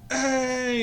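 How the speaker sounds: high, loud, spunky greeting; Eris. Acted. Young mentor spotting the player, spunky high call. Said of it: "and he's like".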